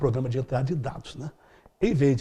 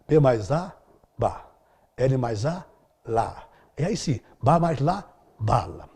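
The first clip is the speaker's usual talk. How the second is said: sounding out syllables; slower than usual. Shown as a demonstration. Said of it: "Depois começou a juntar letras".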